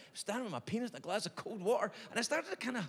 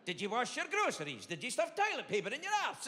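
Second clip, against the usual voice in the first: witch voice; 4 semitones higher than usual. Retold or imitated. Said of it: "she's probably a witch".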